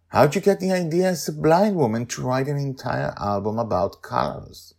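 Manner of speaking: high, loud, bubbly hostess voice; eager hostess Sandra. Acted. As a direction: fuss over guests, voice up high. Sandra gushing.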